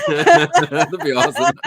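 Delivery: laughing delight, high and loud. Real, not acted. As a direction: laugh through the words. Laughing reply.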